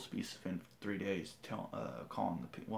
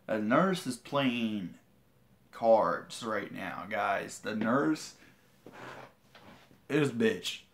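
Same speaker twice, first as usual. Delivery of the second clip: angry; 5 dB louder, much slower than usual. Real, not acted. Angry rant about lying nurse.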